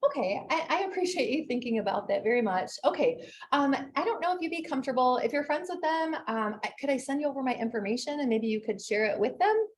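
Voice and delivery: sweet as pie on the phone; sugary sweet. Acted. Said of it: "like, so sugary sweet".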